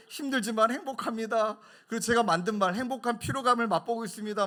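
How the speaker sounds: loud, high mocking of a pious speech; mock pious boast. Mocking friend's pious words to elder pastor, loud mockery. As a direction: ham up the friend's holy talk. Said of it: "말이 바뀌어요".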